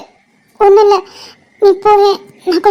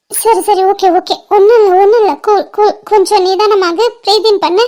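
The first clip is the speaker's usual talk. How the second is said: soothing. Acted. Friend soothes a crying girl.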